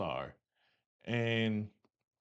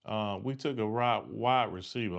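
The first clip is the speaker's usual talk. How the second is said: tripping over the words; stutter. Real, not acted. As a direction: stumble and restart the word. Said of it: "stuttering right now".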